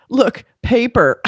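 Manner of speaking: slow, high mock marvelling; mock wonder. Imitating time travellers spotting paper, mock wonder. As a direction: draw out each word like a quaint discovery. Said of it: "they look kinda like".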